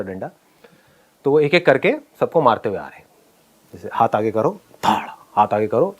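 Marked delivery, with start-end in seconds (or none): 4.8-5.1 imitated stick thwack. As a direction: voice the thud of a stick. Imitates the stick striking hands.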